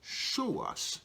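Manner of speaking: begging to be shown, eager and quick; eager Philip. Retold or imitated. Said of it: "So Philip just said".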